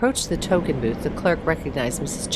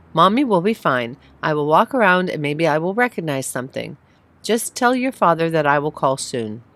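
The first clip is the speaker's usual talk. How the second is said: trying to sound calm; 4 dB louder than usual. Acted. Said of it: "trying to sound calm".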